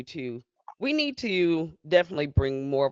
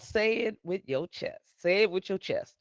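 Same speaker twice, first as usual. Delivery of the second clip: emphatic title announcement; 5 semitones higher than usual. Real, not acted. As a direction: announce the game name with force.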